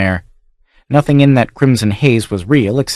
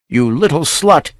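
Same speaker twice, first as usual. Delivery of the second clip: breathless, furious snarl, pitched up; panting rage; 6 semitones higher than usual. Acted. Maddened count panting at the lying child. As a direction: spit it out between heavy breaths. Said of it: "he panted".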